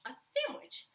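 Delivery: high, rising disbelief; can you believe it, a sandwich; soaring astonished repeat; incredulous. Real, not acted.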